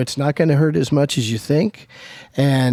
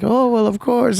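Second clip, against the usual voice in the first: mock Aunt Bee; 9 semitones higher than usual. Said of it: "B's like".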